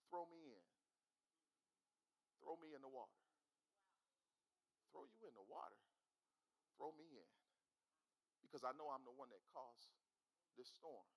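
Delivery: Jonah's plea. Retold or imitated. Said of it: "Jonah says".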